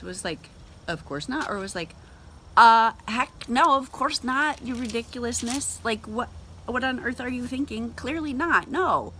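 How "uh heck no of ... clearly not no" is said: exasperated retort. Retold or imitated. Jesus rebuking his disciples, loud exasperated scoff. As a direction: scoff it loud at a ridiculous idea. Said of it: "I wonder what his facial expression was".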